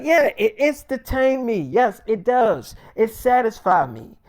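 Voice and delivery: high, loud smug delight; gleeful insistence. Retold or imitated. Friend telling David he loved it, loud gleeful. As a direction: savour every word of it. Friend defending his enjoyment.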